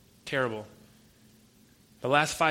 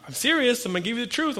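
higher and louder, pressing the point; earnest insistence; 9 semitones higher, 4 dB louder, faster than usual. Retold or imitated. Preacher insisting to his friend that he is serious, raised and earnest. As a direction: insist you mean it.

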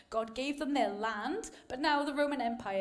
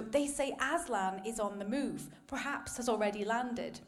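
reading aloud. Acted. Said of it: "let me share a quick quote".

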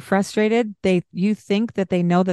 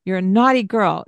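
scolding parent; 2 semitones higher than usual. Shown as a demonstration. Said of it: "instead of saying".

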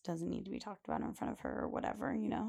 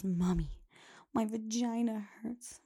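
imitating little girl; 2 semitones higher, slower than usual. Host imitates a little girl complaining to her mother, lightly whiny. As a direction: mimic a small child telling her mom.

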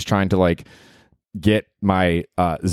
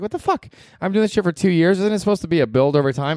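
exasperated outburst; 9 semitones higher than usual. Retold or imitated. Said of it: "And I'm like".

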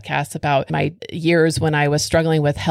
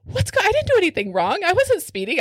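alarmed inner voice; 13 semitones higher, faster than usual. Retold or imitated. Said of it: "I immediately thought".

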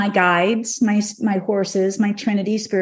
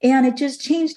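tearful; 2 semitones higher than usual. Real, not acted. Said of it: "the tears were just streaming down my face".

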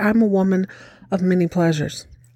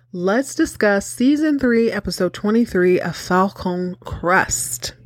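dramatic hushed announcement; slower than usual. Acted.

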